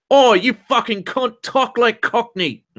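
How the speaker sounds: put-on high drunken uncle voice, slowing at the end. Reading chatter's rude Cockney demand, drunken uncle voice. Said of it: "read this one with drunken uncle's voice".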